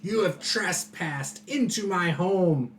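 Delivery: slow, mildly indignant proclamation; yelling villain. Acted. Homeowner to intruders, slow indignant outburst. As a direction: play an affronted master of the house. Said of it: "He yells at everybody".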